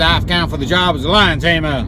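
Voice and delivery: lightly done mock American accent. Applicant asks for lion tamer job, mock American accent. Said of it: "that's the part of the American accent".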